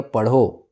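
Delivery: पढ़ो set apart as its own command; पढ़ो detached from what came before; separate word after comma. Shown as a demonstration. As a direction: say पढ़ो alone after a pause. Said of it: "उसके बाद अल्प विराम".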